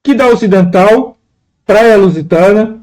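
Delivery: deliberate reading in two separate phrases; verse read out. Shown as a demonstration. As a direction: present the verse half by half, with a pause between. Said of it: "No verso segundo tá assim".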